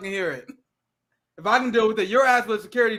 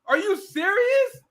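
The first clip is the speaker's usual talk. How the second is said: mock outrage; 3 semitones higher, 4 dB louder than usual. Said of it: "He was like".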